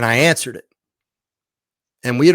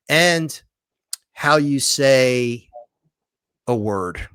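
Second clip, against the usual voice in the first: electronic voice's phrase; much slower than usual. Retold or imitated. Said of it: "it would be talking and then say".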